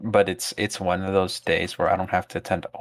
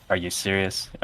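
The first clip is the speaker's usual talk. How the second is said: monotone; 2 semitones lower than usual. Retold or imitated. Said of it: "Just, like, a monotone voice".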